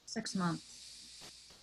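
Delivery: soft whisper to himself; whispered brooding. Acted. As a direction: breathe it out in a whisper, lost in thought. Lane alone brooding in bedroom.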